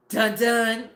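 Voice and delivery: Law and Order sting. Retold or imitated. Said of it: "like Law and Order".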